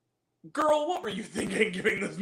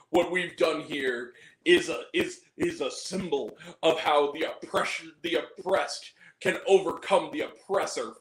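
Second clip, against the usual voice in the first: low, solemn speechifying, mocked; mock sanctimonious; 5 semitones lower than usual. Reviewer parodies the film's closing speech, low mock sanctimony. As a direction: intone it low like a preachy film speech. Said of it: "really sanctimonious speech".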